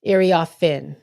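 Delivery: "Iriafin" with a clear final FIN; corrected name pronunciation. Shown as a demonstration. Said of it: "where you put the emphasis on".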